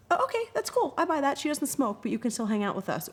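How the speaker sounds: high, airy mock teen voice; accepting friends. Teen friends accepting her rule, high breezy voice. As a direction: chirp it like easygoing teen friends. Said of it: "If you own it, people".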